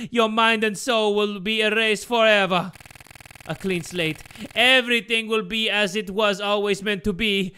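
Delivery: put-on accented madman declaring his grand plan; villainous Geppetto, grandiose. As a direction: proclaim it like a deranged father. Geppetto's plan builds to climax.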